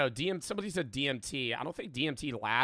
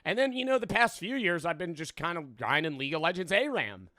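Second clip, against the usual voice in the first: high mock Jesus voice; 3 semitones higher, 4 dB louder than usual. Streamer voicing the man as Jesus.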